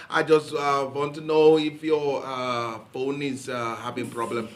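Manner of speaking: put-on caller's Pakistani accent, unhurried; slow Pakistani call-centre accent. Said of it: "he's doing Pakistani accent".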